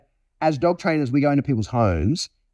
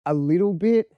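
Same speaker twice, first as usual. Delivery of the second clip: dog's inner voice; 3 semitones higher than usual. Retold or imitated. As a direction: voice the dog, half listening. Dog voiced distracted.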